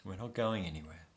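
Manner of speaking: tender reassurance to a frightened younger self; gently said. Shown as a demonstration. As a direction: comfort a scared child, lightly voiced. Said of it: "You just gently say".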